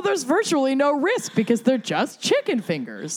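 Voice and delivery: lively mock-serious argument; animated reading. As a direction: sell the heist like a pitch. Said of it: "Is this a quote from the article?".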